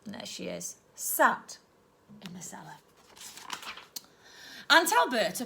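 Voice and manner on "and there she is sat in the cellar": dropping to a soft whisper; whispered scene setting; hushed aside. A narrator's reading. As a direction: let it fade into a secret. Hushed aside about the cellar.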